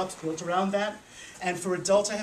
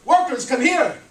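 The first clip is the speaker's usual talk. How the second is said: higher and much louder, a proud proclamation; pompous wise man; 6 semitones higher, 10 dB louder than usual. Acted. Wise old man proclaiming to the workers, loud and pompous. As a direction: announce it like a grand decree. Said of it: "the wise old man said".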